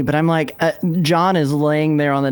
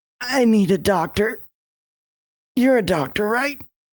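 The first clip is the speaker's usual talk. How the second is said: slight, pained, pitched-up little groan; 7 semitones higher than usual. In an actual-play game, looking a doctor in the eye, Barrowman with a little groan. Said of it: "I play a little dude named Barrowman, and he's made some choices over the last few weeks. Some of them great, some of them awful, most of them disgusting, because he's a disgusting man".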